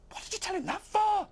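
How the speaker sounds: high loud hissed rebuke. Acted. Lizzie scolds Tom inside the dragon, hissed. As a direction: scold him sharply. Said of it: "hissed Lizzie".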